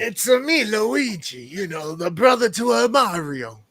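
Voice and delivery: lightly voiced Mario-brother accent; a hint of a goofy Italian plumber; Luigi impression. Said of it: "That's the worst impression ever".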